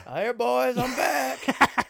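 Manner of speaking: high, loud whooping redneck yell; crazy redneck pilot. Acted. Crazy redneck flying his spaceship into the aliens, high exuberant yell. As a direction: holler it like a wild redneck flyboy. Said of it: "crazy redneck guy when he flies".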